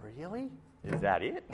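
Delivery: deadpan. Retold or imitated. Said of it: "deadpan face and said".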